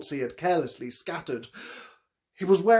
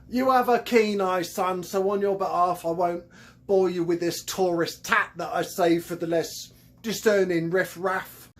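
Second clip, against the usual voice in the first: Cockney con man. Acted. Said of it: "His thick Cockney accent".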